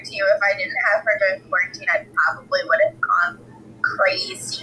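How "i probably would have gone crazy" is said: high squeal. Real, not acted. Swears she'd have gone crazy.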